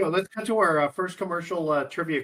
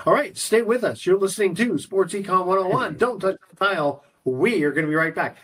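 radio voice; 2 semitones higher than usual. Shown as a demonstration. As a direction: sell the break like a station announcer. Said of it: "How's that radio voice?".

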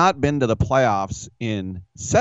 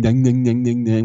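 mock ding ding; 2 semitones higher, 4 dB louder than usual. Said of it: "with my face".

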